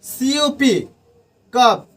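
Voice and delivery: कप with a hard k sound; spelled then said. Shown as a demonstration. Teacher repeats सीयूपी, then says कप with k. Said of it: "not सप".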